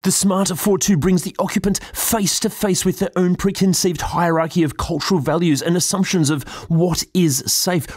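lofty, highbrow critic voice; pompous gallery-talk delivery; pretentious art critic. Pretend. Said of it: "I'm gonna do it in my most pretentious art critic kind of way".

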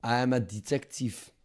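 mock French accent, a touch soft; put-on French accent. French detective introducing himself to the host, French accent. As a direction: say it as a self-important French sleuth. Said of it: "Fuck this French accent".

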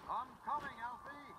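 high, loud reassurance; shouting. Acted. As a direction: shout back on the way. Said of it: "he shouted".

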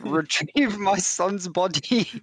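put-on a light, hammy French accent; mock French accent. Priest explaining his need, in mock French accent. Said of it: "this is me trying to do a French accent".

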